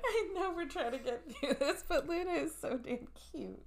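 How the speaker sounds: high-pitched, giggly cooing; laughing apology melting into high coo; cute-struck gushing. Real, not acted. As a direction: gush helplessly over something adorable. Gushing over Luna, apologising for interrupting.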